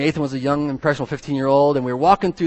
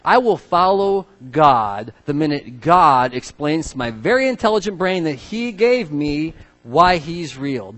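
smug intellect; 3 semitones higher, 5 dB louder, slower than usual. Retold or imitated.

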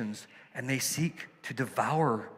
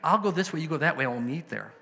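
lightly voiced sly wolf chatting with a girl, higher; 5 semitones higher, faster than usual. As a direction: act out the wolf tricking the little girl, a bit higher. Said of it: "the wolf comes up and he says".

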